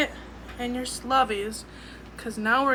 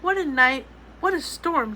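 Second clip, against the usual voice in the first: mild mole muttering; 3 semitones higher, 5 dB louder than usual. Acted. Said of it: "Mole mutters".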